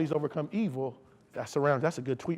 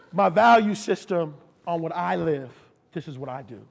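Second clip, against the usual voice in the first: calm firm statement; 3 semitones lower than usual. Retold or imitated. Preacher calmly states his values.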